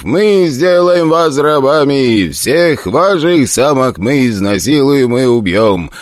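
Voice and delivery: a hint of a roaring warlord; bellowing orc chief. Orc chief bellows threats at the humans, slow roar. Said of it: "Вождь орков орал так".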